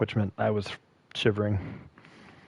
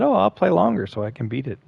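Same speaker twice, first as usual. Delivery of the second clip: mock confident; 6 semitones higher, faster than usual. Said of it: "on the stream that I said".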